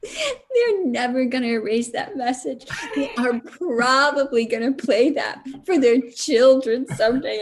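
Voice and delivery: words broken by real laughter; laughing while talking. Real, not acted. Mother laughing at her own joke to the audience. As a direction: giggle through it. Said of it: "laughing through the line".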